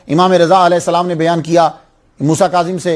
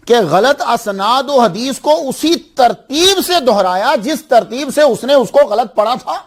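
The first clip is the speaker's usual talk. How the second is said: raised, marvelling delivery of a quotation; emphatic preaching; 5 semitones higher than usual. Retold or imitated. Preacher quotes a scholar marvelling at Bukhari's memory, emphatic amazement.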